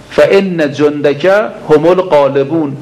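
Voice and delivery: slow, drawn-out Arabic supplication, each word weighed; slow prayer recitation. Acted. Preacher reciting the supplication to the congregation, slow and drawn out. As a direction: intone the prayer slowly like a preacher.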